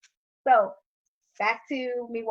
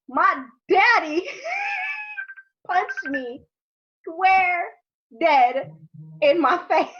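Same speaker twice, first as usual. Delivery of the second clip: laughing through the words, louder and higher; 5 semitones higher, 5 dB louder, much slower than usual. Real, not acted. A daughter laughing as she tells how her dad punched her. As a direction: crack up while telling it.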